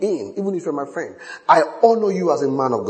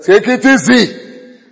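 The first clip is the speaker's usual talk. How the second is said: calm reassurance; 6 semitones higher, 8 dB louder, much slower than usual. Retold or imitated. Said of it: "I said".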